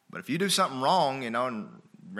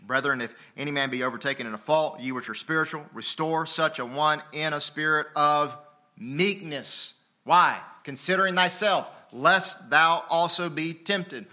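emphatic, measured Bible reading; scripture recitation; 4 semitones higher, 5 dB louder than usual. Real, not acted. Pastor quoting scripture on restoring the fallen, emphatic recitation. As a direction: proclaim the verse, drawing out the final words.

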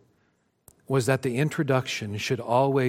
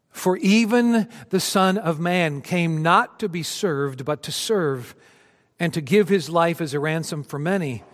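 solemn scripture reading; 3 semitones higher than usual. Acted. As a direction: lay each phrase down with reverence. Pastor quotes Jesus' key verse.

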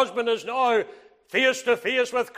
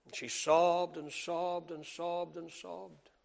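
soft, low, slowed telling; hushed storytelling; 5 semitones lower, 13 dB quieter than usual. Acted. Pastor quietly recalling the weeping widow, hushed. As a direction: drop to a near murmur.

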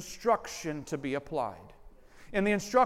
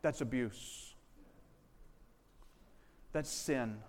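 much softer and lower, solemn and sober; quiet grave verdict; 5 semitones lower, 10 dB quieter, slower than usual. Real, not acted. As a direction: let it drop quietly after the shouting. Quiet verdict after acted outburst.

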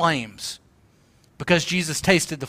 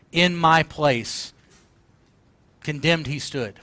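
hushed, reverent preacher sinking softer; serious tone; 3 dB quieter than usual. Real, not acted. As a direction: recite it solemnly, line by line with long pauses. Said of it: "We've cut a pretty serious tone today".

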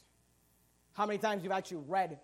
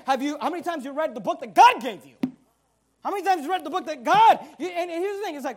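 ordinary talk, nothing marked

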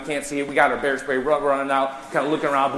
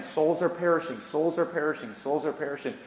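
each repeat softer, falling away; fading lament; 7 dB quieter than usual. Real, not acted. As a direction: let it die down with grief.

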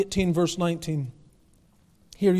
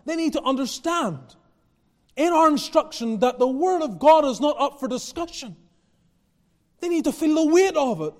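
higher-pitched, insistent pulpit delivery; emphatic sermon voice; impassioned preaching; 5 semitones higher, 3 dB louder than usual. Real, not acted. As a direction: press the point on the congregation with conviction. Preaches with rising force.

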